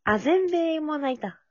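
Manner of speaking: slow, drawn-out trailer announcer. Pretend. Movie trailer catchphrase. (映画予告のナレーション風)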